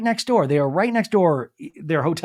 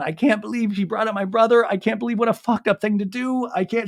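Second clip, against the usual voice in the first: higher, upset retelling without real tears; mildly acted distraught disbelief; imitated tearful outrage; 5 semitones higher than usual. Recapping Olivia crying to Venita, imitated upset. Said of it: "Olivia is hyperventilating, crying".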